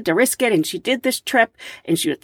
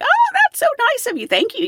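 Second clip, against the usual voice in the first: touched surprise. Retold or imitated. Touched by gift cards.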